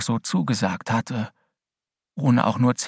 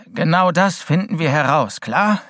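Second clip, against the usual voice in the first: put-on louder, gruff old headmaster; 5 semitones higher, 5 dB louder than usual. A narrator's reading. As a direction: speak as a worried old school head. Headmaster insists.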